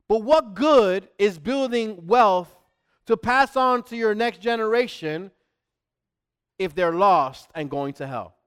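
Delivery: loud, forceful preaching challenge; serious, blunt warning. Real, not acted. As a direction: press it hard so they feel how serious it is. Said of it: "I have to say it like that".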